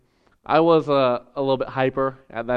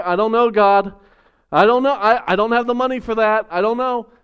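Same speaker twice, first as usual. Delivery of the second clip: anxious doubt; 3 semitones higher than usual. Pretend. Doubting believer answering God.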